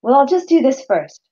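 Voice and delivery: lightly voiced stalling brain; mock excuse-making brain. Brain talking listener out of signing up, mock excuses. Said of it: "all brains do brilliantly of saying".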